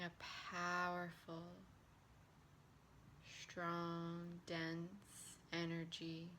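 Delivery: unhurried meditation voice with long pauses; guided relaxation. Acted. Relaxation teacher leading listeners through hand and breath work, guided relaxation. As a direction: guide them gently through each step.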